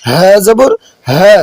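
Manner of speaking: slow demonstration, হা voiced fully; resonant হা. Shown as a demonstration. Teacher repeats হা after explaining it, resonant and slow. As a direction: give হা its full sound. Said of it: "দবনি সহকারে উচ্চারণ হবে".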